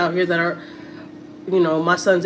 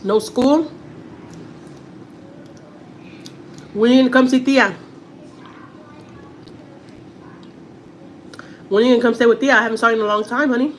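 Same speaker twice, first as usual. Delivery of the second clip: affectionate coaxing; 6 semitones higher than usual. Real, not acted. Talking to nephew on call.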